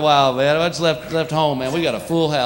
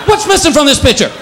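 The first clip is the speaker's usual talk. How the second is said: hammed-up indignant cat; neutered cat voice; 5 semitones higher than usual. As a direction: whine like a wounded cat. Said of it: "It's like".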